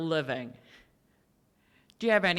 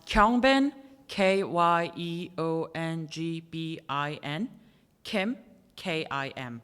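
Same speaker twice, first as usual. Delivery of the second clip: slow and clear; slower than usual. Shown as a demonstration. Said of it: "Could you repeat it".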